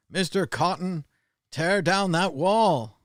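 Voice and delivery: high, slow hammed-up plea, wall whispered; mock presidential appeal, ending in a slow whisper; mock Reagan quote. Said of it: "Sounds like a plantation owner".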